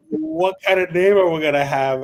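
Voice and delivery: high laugh then quick question; laughing at the memory. Retold or imitated. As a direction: laugh it out, then ask fast. Laughing, quoting group question.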